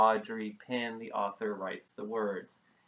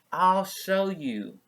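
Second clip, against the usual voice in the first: gentle mother; 7 semitones higher, 9 dB louder, slower than usual. Acted.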